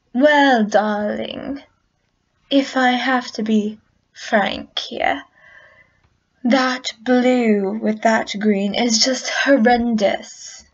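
mock-British fashion critic; dramatic, deliberate British "darling" voice; haughty British verdict on bad colours. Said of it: "Why do I sound British?".

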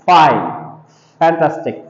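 ফাইন, ফ্যান্টাস্টিক with a clear initial f; ফাইন, ফ্যান্টাস্টিক as separate model words; pronunciation model. Shown as a demonstration. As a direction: demonstrate the f sound in ফাইন, ফ্যান্টাস্টিক. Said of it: "এইভাবে উচ্চারণ হবে".

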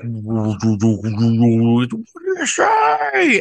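indistinct mumble, then stretched stage cry; Chad. Acted. Singer heard from the back, garbled call into a wail. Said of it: "walking at the back and I'd hear".

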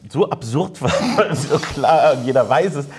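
laughing. Real, not acted. Laughing at the absurd RTL ban.

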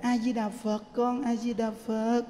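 put-on soft, even chant to calm a crying baby; soothing a child. Carer to crying grandchild, soothing soft chanting. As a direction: gently lull the child with the chant. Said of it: "mình dỗ nó".

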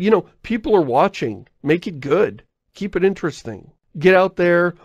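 animated, impatient running commentary; urging on. Acted. Viewer to streamer being chased by skeletons, impatient urging.

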